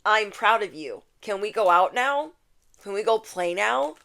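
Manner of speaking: put-on hopeful childlike pleading; inner child. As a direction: ask like a kid itching to play. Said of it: "Your inner child can't sit still and it's like".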